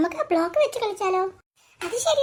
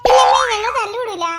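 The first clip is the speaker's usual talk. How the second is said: loud protest; 7 dB louder than usual. Acted. Child protesting loudly to mother.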